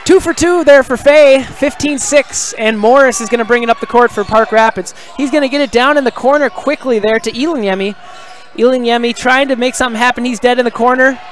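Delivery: lively basketball commentary; live play-by-play. Real, not acted. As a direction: call the play with a slight lift in energy.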